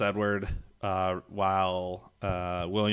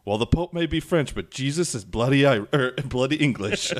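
mock defiant retort; 4 semitones higher, 5 dB louder than usual. Roland's retort, quoted.

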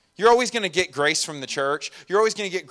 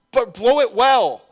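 playful punchline; 8 semitones higher, 8 dB louder, slower than usual. Real, not acted. Punchline, laugh follows.

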